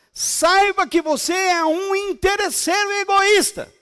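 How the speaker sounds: loud rebuking preacher; preaching at full force. Acted. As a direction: thunder it from the pulpit.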